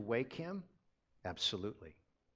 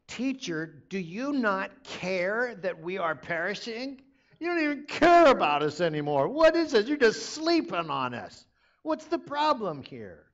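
panicked disciples yelling, pitched way up; frantic high shout; 9 semitones higher, 16 dB louder than usual. Acted. Disciples in the storm shouting at Jesus, frantic and high. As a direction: cry out in terror at a sleeping teacher.

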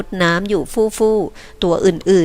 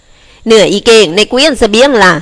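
asking; 3 semitones higher, 6 dB louder, slower than usual. Acted. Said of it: "เสียงหนึ่งถามถึง".

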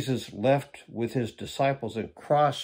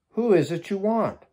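raised, ringing challenge in higher pitch; commanding question; 8 semitones higher, 5 dB louder than usual. Acted. Jesus asks the soldiers who they seek, commanding question. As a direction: read it out as a loud, high demand.

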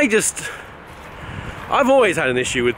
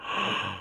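sharp intake of breath; horrified gasp; 11 dB quieter than usual. Acted. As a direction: gasp in mock horror. Gasp amid mock horror.

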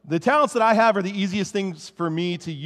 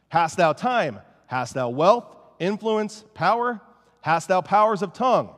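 put-on reading an old sermon; 2 semitones higher, 5 dB louder, slower than usual. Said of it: "I'm gonna do my best not to speak in an English accent".

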